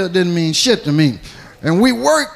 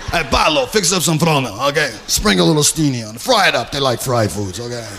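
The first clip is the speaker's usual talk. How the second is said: lightly voiced mobster, pitched down; mobster host; 6 semitones lower, faster than usual. Mobster tells Paolo to cook for the kid, lightly mimicked. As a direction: order food offhand as a lightly imitated mobster.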